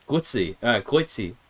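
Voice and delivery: Grüezi tried out, "grü-et-si" with a rounded ü; Swiss German greeting. Shown as a demonstration. Streamer trying Swiss German hello for chat, tentative attempt. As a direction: test out the word Grüezi. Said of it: "am I saying it right?".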